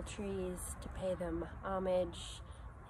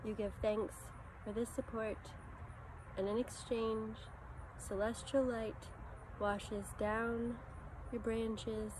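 guided meditation. Acted. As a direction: lead them gently inward, phrase by phrase, leaving space after each.

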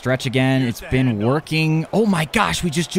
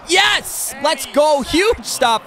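triumphant yell; 13 semitones higher, much slower than usual. Real, not acted. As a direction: celebrate the big stop. Defense gets the stop.

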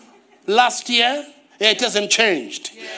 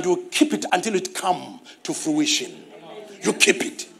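whispered secret; 3 semitones lower, 6 dB quieter than usual. Real, not acted. Whispered advice.

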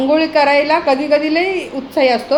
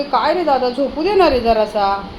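voicing the sleepy dog; 4 dB louder than usual. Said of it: "तो म्हणतोय".

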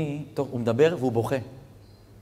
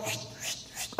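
hushed whisper mid-sermon; 14 dB quieter than usual. Acted. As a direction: drop to a whisper for effect. Sudden hush in the sermon. (לחישה פתאומית)

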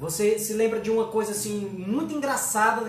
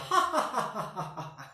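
soap-opera villain cackle; sarcastic evil laugh; 3 dB quieter than usual. Shown as a demonstration. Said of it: "de vilão de novela".

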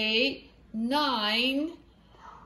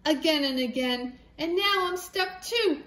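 tired hen; 3 semitones higher than usual. Acted. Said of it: "said the poor muddy hen".

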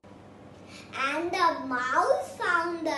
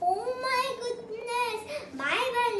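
startled farewell; 5 semitones higher than usual. Acted. Snake sees Gruffalo and flees.

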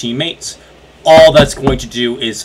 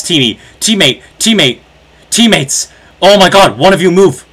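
urgent calls rising into a shout; beg, then yell at the teammate; frantic pleading building to yell; 4 dB louder than usual. Real, not acted.

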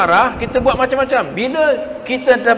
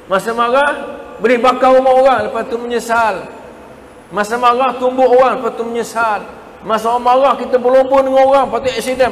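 louder, higher building cadence; rising preaching; 5 semitones higher, 4 dB louder than usual. Real, not acted. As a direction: drive each example harder. Preacher builds list of anger's deeds.

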